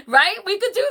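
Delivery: asked through laughter, high and loud; laughing. Real, not acted. Asking the ladies through laughter, high and loud. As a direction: toss it out mid-laugh. Still laughing after joke.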